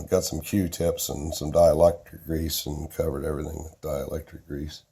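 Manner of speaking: hoarse, strained from a sore throat; talking through a sore throat. Real, not acted. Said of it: "apologize for the sore throat".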